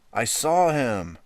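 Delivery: put-on high, loud, slow wailing girl; little sister pleading to be believed; tearful child. A narrator's reading. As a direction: wail it near tears. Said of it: "Baby cried".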